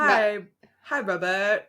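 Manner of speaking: half-hearted American accent, close to laughing; giggly, barely American greeting; American accent attempt. Shown as a demonstration. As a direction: try American and nearly crack up. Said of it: "That's not even an accent".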